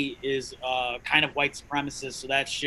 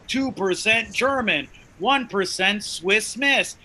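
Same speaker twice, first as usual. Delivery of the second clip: quoting white friends; 5 semitones higher, slower than usual. Retold or imitated. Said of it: "They're like".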